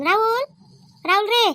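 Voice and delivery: mother calling her son's name. Acted. Mother calls her sleeping son, calling out. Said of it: "तुझी आई किती ओरडत आहे जोराजोराने".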